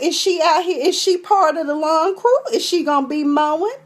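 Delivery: high-pitched, hammed-up disbelief; mock indignation. Indignant rant about intruder in yard.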